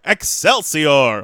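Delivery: loud, slow, drawn-out catchphrase; Stan Lee. Retold or imitated. Comic-book legend signing off the bit, hammed-up triumphant cry. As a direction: proclaim it like a triumphant showman. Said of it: "Stan Lee goes".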